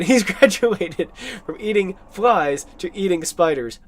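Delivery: slow, careful Renfield line, lightly voiced; a second try at Renfield's line, said slowly and carefully; Renfield line retaken. Shown as a demonstration. Host retries Renfield's line for viewers, slow and careful. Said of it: "Let me try that again".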